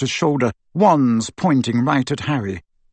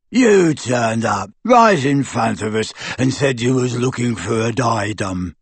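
grunting lackey; 2 semitones lower than usual. A narrator's reading. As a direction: puzzle it out like a dim henchman. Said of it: "grunted Goyle".

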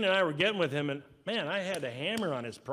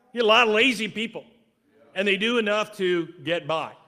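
louder, fast, hammering the point; emphatic preaching; 3 semitones higher, 8 dB louder than usual. Real, not acted. Preacher raising his voice about lazy people, emphatic. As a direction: drive it home to the congregation.

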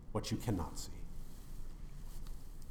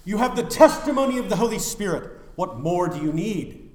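fiery preaching; 9 semitones higher, 9 dB louder than usual. Acted. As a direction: preach it hard to the crowd. Preaching at full force.

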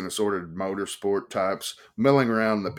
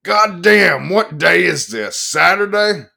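put-on very loud, much higher drunken yell; 10 semitones higher, 11 dB louder, slower than usual. A narrator's reading. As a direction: bellow across the bar. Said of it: "boomed up the bar and yelled".

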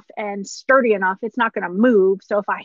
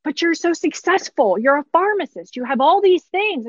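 patient in disbelief; 6 semitones higher than usual. Retold or imitated. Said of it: "I was like".

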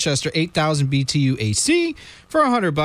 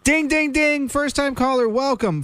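high, hammed-up game show announcer; goofy announcer; 10 semitones higher than usual. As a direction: ring the bell like a goofy quiz host. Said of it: "me being goofy and giving you the ding".

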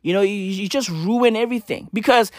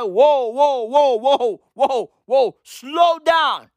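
crowd calming her; 2 semitones higher, much slower than usual. Retold or imitated. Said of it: "And everybody was like".

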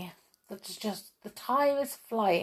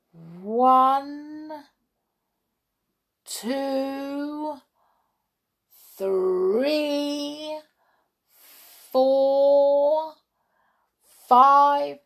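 higher counting that swells louder; 8 semitones higher, 5 dB louder, much slower than usual. Acted. Bambi counts for hide and seek, higher, building louder.

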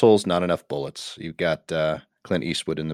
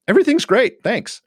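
sarcastic; 4 dB louder than usual. Acted. Sarcastic meme punchline.

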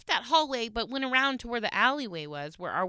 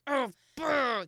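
higher grumpy imitation; mock mad grumbling; 4 semitones higher than usual. Wife imitating her mad husband, mock grumbling. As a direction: imitate wordless angry grumbling, a bit higher. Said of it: "'cause he's mad".

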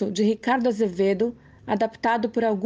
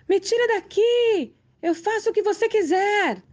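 desperate scream; 11 semitones higher than usual. A narrator's reading. Death shrieking at the old man to let her go. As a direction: scream and beg to be freed. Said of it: "E a morte gritou".

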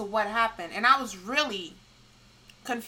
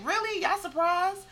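mock disbelief; 8 semitones higher than usual. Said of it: "which I'm like".

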